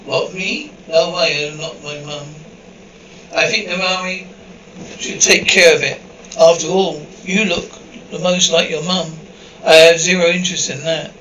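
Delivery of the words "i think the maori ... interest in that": arguing. Acted. Siblings arguing over duties.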